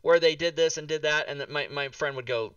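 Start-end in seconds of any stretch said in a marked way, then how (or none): 0.0-1.3 louder, higher, eager to share a memory; excited recollection. Retold or imitated. Reminding a friend of a cartoon, excited. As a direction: gush about the cartoon like everyone knows it. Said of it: "So I would say to a friend".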